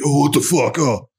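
exaggerated effeminate accent, acted out; effeminate gay accent. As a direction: put on a campy effeminate startled voice. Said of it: "effeminate, like, gay dude accent".

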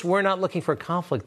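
mocking quote. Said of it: "This is what he always says".

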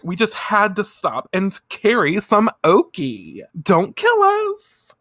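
put-on high, squeaky valley-girl whine; high squeaky plea; bubbly teen girl. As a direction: plead like a ditzy schoolgirl. Duo begging forgiveness.

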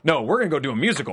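quick, eager decision; impulsive excitement. Retold or imitated. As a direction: rush into the plan gladly. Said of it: "Not Norma".

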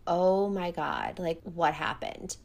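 slow, hushed mock shock; stunned and drawn out, acting her reaction; retold shock. Violet sees the scars on his back, retold shock. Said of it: "sucks in a breath".

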